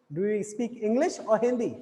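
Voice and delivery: "English" rises, "Hindi" falls; rising then falling. Shown as a demonstration. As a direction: slowly lift "English", then drop on "Hindi". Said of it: "हिंदी तो आपका एक तरीके से फॉलिंग". ("English" पर चढ़ता, "Hindi" पर गिरता स्वर)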